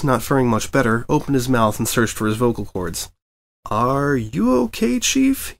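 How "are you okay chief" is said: strained, halting question, barely getting it out; fighting to find his voice; nervous stammer. A narrator's reading. Reporter squeaks at his furious editor, nervous. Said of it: "he finally managed".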